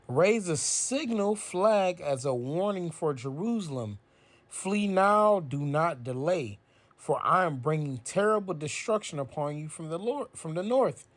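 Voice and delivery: slow, weighty reading of a warning; preacher reading Jeremiah aloud; solemn scripture reading. Acted. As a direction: proclaim the prophet's warning.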